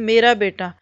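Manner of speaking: a fond, understated "मेरा बेटा" that leans on "मेरा"; a parent's gentle "मेरा बेटा" with a falling end; said lovingly. Shown as a demonstration. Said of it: "बहुत प्यार से कहें".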